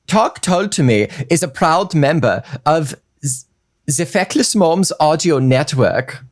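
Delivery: put-on German accent. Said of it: "Um, German".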